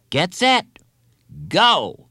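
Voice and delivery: high, loud race call; starter's call. Acted. Hostess starting the relay, loud call. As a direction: call the start across the yard.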